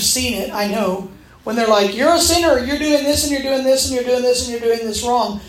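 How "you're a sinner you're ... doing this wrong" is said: mimicked accuser. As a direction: rattle off accusations like a nagging critic. Mimicking accusers listing her sins.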